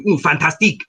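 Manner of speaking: fantastique said the French way, fan-tas-TEEK; light Belgian French accent on fantastique. Shown as a demonstration. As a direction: stretch Ooh, then fantastique with French vowels. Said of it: "fantastic to".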